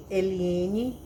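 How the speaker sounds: firm summons, mildly stern; authoritative father. Retold or imitated. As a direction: lightly imitate a father's authority. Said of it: "com essa mesma autoridade".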